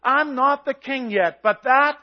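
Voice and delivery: loud, full-force preaching that swells as it goes; preaching shout. Real, not acted. Preacher shouting his faith at the congregation, loud and intense. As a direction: shout the promise over the congregation. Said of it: "I'm shouting at you".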